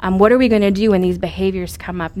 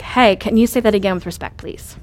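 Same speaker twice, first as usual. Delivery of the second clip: calm, even ask for a redo; calm request. Retold or imitated. Mother to teenage daughter, calm redo request. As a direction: stay level and ask kindly instead of yelling. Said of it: "I've decided that I'm gonna go to her".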